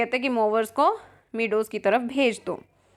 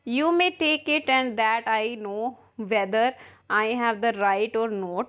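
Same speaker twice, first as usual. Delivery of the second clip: reads the English lines slowly, word by word; slow play reading; much slower than usual. Acted. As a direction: spell out each line of the play for the class. Teacher reads play aloud. (धीमा नाट्य पाठ)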